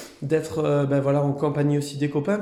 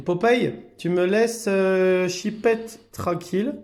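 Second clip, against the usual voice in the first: gentle scolding; 6 semitones higher, much slower than usual. Real, not acted.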